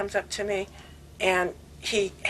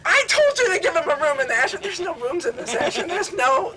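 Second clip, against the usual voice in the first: louder, higher guru's rebuke; mock scolding; 7 semitones higher, 4 dB louder than usual. Swami scolding Kastori for no room, mock stern. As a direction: play Swami chiding him firmly.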